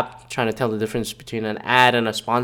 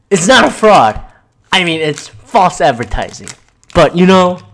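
imitating Ja Rule; 4 semitones higher, 5 dB louder than usual. Imitating Ja Rule's defense.

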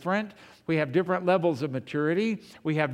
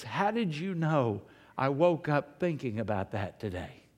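biker moved to tears; 3 semitones lower, 4 dB quieter than usual. Retold or imitated. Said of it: "He goes".

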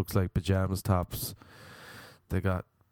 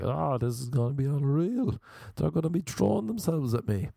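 retold excited anticipation; 6 semitones higher than usual. Retelling his own naive anticipation.

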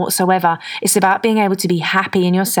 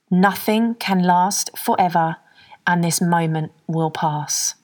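slow calm affirmation. Shown as a demonstration. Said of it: "Number two".

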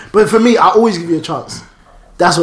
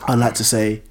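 halting, low and soft delivery; slow, faltering, filler-laden reply; imitated stuttering; 6 semitones lower, 5 dB quieter, slower than usual. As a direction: mimic someone hesitantly feeling for words. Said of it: "He was there stuttering".

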